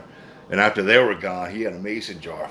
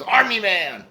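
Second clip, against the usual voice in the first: mock stoned voice; 10 semitones higher, slower than usual. Retold punchline quote.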